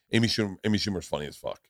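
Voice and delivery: quick, offhand verdict. Retold or imitated. Friend tipping him off about a new comic, quick. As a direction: toss it out fast. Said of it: "very quickly saying".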